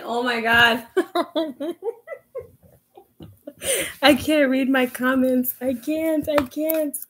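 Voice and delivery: high, flustered and laughing; giddy with nerves. Real, not acted. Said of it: "I am so nervous".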